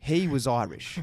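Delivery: slow, drawn-out echo in disbelief; incredulous repeat. Retold or imitated. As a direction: repeat it slowly, stretching HE WAS IRISH. Repeats her answer in disbelief.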